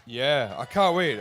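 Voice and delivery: plain; eager. Real, not acted. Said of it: "You excited to get on stage".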